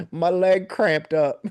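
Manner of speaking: high, loud, drawn-out wail; comically hammed-up agony, stretched slow; imitated screaming. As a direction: mimic a man screaming over a minor injury. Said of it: "he's, like, screaming".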